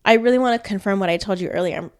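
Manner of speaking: congested, stuffy voice; blocked nose. Real, not acted. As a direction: talk through a stuffed-up nose. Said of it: "I'm congested".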